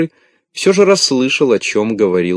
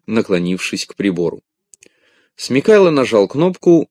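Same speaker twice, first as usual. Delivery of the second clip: ordinary delivery, nothing marked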